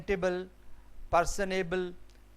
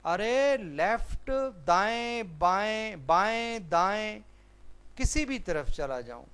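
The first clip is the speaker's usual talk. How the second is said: exasperated, high, drawn-out listing; acted testy anger; 4 semitones higher than usual. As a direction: act fed up, each word swinging high. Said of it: "غصے سے کہتا ہے". (جھنجھلا کر، چڑے ہوئے لہجے میں)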